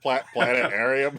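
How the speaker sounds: planetarium with the T dropped; speech impediment imitation. Co-host imitating the South Park character's missing T. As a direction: stumble on Pla- then say planetarium without the T. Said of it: "can't say the T sound in Planetarium".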